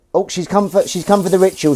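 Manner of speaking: high, loud sing-song pet voice; a big bright coo for the cat. Real, not acted. Cooing to Willow the cat arriving for the ritual, high and loud.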